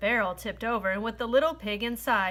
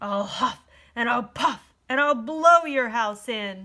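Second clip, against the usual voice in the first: loud, snarling, menacing voice; 5 dB louder than usual. Reading the three little pigs story, the wolf answers the pig: snarling Big Bad Wolf. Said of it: "snarled the wolf".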